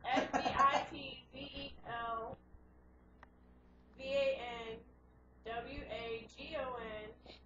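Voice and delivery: slow letter-by-letter spelling; spelling words in front of kids. Shown as a demonstration. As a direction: spell each letter out slowly. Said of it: "Spell it".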